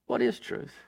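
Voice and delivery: "What is truth?" repeated in a low, soft whisper; whispered echo. Acted. Preacher echoing Pilate's question to the congregation, whispered. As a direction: let "What is truth?" sink into a hush. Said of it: "Pilate asked the question".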